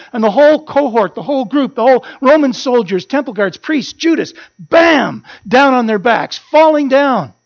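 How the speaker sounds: excited telling. Real, not acted. Preacher tells the congregation how the soldiers fell, mounting excitement.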